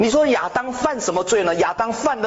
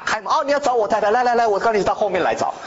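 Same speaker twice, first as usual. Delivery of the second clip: quick, cheerful mock welcome, hammed up; mock eager traitor; 3 semitones higher, faster than usual. Preacher mocking a careless husband, quick and cheerful. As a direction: rush the words like a traitor opening the gate. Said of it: "像那个吴三桂一样啊".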